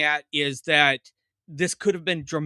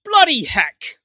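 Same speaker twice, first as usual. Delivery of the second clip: much higher, louder mock British exclamation; overdone British voice; hammed-up British accent; 10 semitones higher, 8 dB louder, slower than usual. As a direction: squeal it like a cartoon Brit. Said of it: "as the Brits would say".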